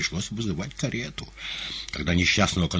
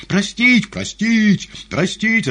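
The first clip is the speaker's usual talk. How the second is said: high, loud women's cries; crowd calls; 11 dB louder, much slower than usual. A narrator's reading. Women in the audience urging pardon, high shouts. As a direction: call it out like separate voices in a crowd. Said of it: "раздались вначале отдельные и преимущественно женские голоса".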